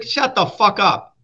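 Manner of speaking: slow, drawn-out mock New Jersey retort; blunt New Jersey local. Guest imitating a New Jersey local shutting someone down, slow. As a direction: play a fed-up New Jersey local telling you off. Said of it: "it's like".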